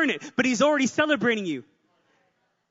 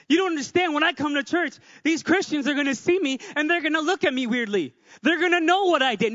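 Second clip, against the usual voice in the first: higher-pitched anxious protest, lightly acted; mock worry; 4 semitones higher, 3 dB louder than usual. Preacher voicing someone scared of Christians at church, mock worry. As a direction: fret about being judged, pitched up. Acting out a worried would-be churchgoer.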